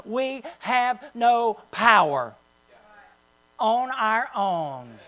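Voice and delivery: slow, steady and matter-of-fact on "We have no power"; statement of fact. Shown as a demonstration. Pastor tells the congregation the right way, calm matter-of-fact. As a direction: say "We have no power on our own" slowly as plain truth, no gloom. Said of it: "as a statement of fact".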